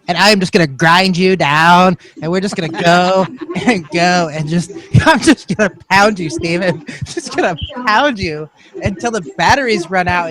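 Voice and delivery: lightly camp, flirty promo voice; a mild camp tease, giggling at times; gay voice. Acted. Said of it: "I was gonna do gay voice".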